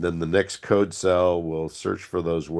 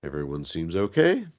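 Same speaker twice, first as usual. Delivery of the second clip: stuffed up nose. Real, not acted. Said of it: "I sound a little bit stuffed up".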